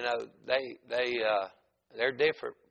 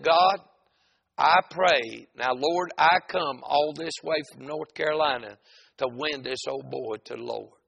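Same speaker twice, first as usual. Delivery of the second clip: raised-voice prayer, emphatic; retold prayer; 2 semitones higher, 5 dB louder than usual. Preacher praying at the gate, retold prayer. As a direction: call on God out loud. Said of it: "So I started praying".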